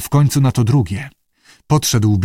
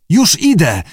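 louder, higher call back; 5 semitones higher, 3 dB louder than usual. A narrator's reading. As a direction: answer her across the sand. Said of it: "zawołał Abe". (głośne zawołanie)

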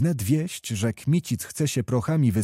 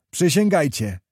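raised, higher 'Przysięgajcie' with a hard fall; demanding command; 5 semitones higher, 4 dB louder than usual. A narrator's reading. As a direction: Kmicic demands the oath, a touch louder. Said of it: "powtórzył pan Wołodyjowski".

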